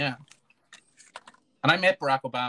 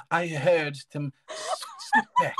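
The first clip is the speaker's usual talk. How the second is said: mock sexy; 2 semitones higher than usual. Co-host playing at a flirty call, mock sexy. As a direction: linger teasingly, barely holding back a laugh. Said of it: "you can make anything sound sexy".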